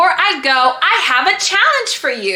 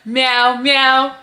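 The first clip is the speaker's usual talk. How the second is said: cat meowing; 5 semitones higher, slower than usual. Pretend. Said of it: "And she says meow".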